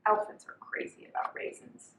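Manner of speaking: breathy whisper to the listener; hushed storybook secret; whispered aside. A narrator's reading. Narrator confides elephant secret.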